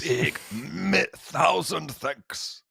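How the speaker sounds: slow, drawn-out "thousand thanks" like a hammed-up Italian chef; mock Italian chef. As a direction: stretch it out with imaginary Italian hands. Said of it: "With the Italian hands".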